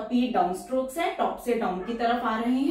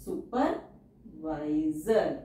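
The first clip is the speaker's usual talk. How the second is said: सुपरवाइजर drawn out very slowly; slow teacher dictation; 5 semitones lower, much slower than usual. Shown as a demonstration. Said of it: "teacher says word then dictates".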